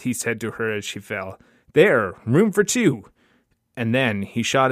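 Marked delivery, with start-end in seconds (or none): 1.7-3.0 high, loud, drawn-out words; slow, exultant raised voice; grim triumph. Acted. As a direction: declare the tally slowly and forcefully. Gunman counts after second shooting.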